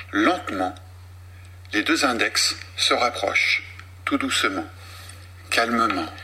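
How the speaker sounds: slow hypnotic induction with long pauses; slow hypnotist voice. Acted. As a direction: lull them down, drawing out each phrase. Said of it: "cette voix qu'on a entendue, qui est très lente, avec un phrasé particulier".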